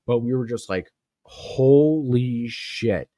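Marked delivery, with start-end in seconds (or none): 1.2-3.1 slow, drawn-out disbelief; stunned. Retold or imitated. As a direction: let it out slowly, amazed. Recruits stunned.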